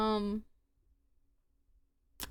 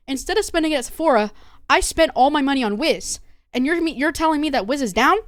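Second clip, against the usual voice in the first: a louder mock rant, venting about wasted money; imitating an angry rant; 3 semitones higher, 5 dB louder than usual. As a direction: play the fed-up girl ranting, half-mocking. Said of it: "she went on a whole fucking rant".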